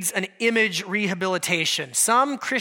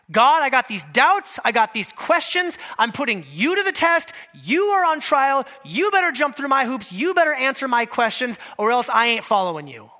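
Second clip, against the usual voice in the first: defiant demand; 2 semitones higher than usual. Retold or imitated. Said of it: "Hard-hearted doubt".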